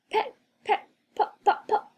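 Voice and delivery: very high pecking sounds; pecking birds. A narrator's reading. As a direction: peck out each word like a beak. Birds peck the balloons.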